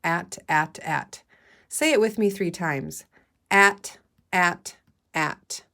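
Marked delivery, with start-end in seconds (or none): 0.0-1.2 at said slowly, falling each time; rhyme at. Shown as a demonstration. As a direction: sound out the rhyme at like a teacher. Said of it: "the magic rhyme at".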